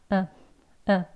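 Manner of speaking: 어 short and weak; 어 said limp and brief; 어 with a relaxed mouth; weak schwa demo. Shown as a demonstration. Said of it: "약하게 짧게 어라고 냅니다".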